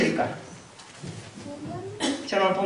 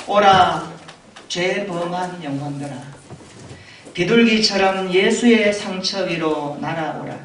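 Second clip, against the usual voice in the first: measured, declamatory sermon reading; poetic recitation; 5 dB louder than usual. Acted. Preacher reading Spurgeon's sermon to the congregation, poetic recitation. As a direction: recite it like verse, swelling then falling away.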